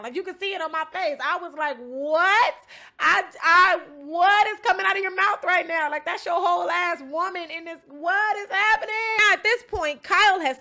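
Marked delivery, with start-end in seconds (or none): 1.8-8.9 higher, louder retold disbelief; shocked disbelief. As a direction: replay the moment your jaw dropped. Retold shock at Bear's plan.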